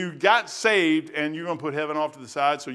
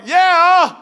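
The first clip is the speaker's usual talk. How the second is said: high, loud, gleeful yeah; overjoyed high yelp of yes; delighted yeah; 14 dB louder than usual. Retold or imitated. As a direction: jump at the offer, thrilled. Eager reply to support offer.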